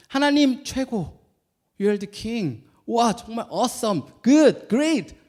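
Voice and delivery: high, slow, gushing praise to God; excited praise. Shown as a demonstration. Pastor demonstrating praise to God, high and gushing. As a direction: cheer for God like a fan. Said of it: "이렇게 인정하는 거예요".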